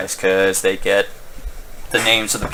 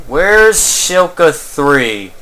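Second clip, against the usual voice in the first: exasperated call; 4 semitones higher, much slower than usual. Real, not acted. Player hunts for missing map target.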